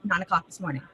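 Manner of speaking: words slurred slightly by a numb lip. Real, not acted. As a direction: talk through a lip still numb from the dentist. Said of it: "my lip is still numb".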